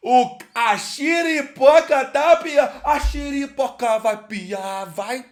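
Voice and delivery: drawn-out, high, loud opening cry; hyped catchphrase. Pretend. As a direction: stretch it out like a showman's catchphrase. Drawn-out catchphrase after the drama. (bordão esticado, alto e animado)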